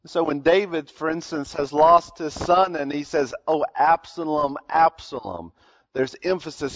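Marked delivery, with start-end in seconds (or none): 3.5-5.5 grieving father. Retold or imitated. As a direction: let the name sink in grief. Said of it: "He's emphasizing the grief that he feels".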